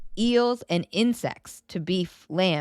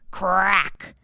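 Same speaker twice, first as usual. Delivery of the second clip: loud crack. A narrator's reading. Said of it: "It was louder than one hundred firecrackers".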